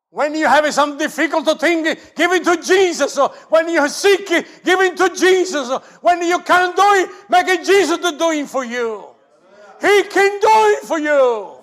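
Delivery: very high, full-throated, screaming preaching voice. A pastor preaching to the congregation, screaming while preaching. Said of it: "I scream because I want you to hear".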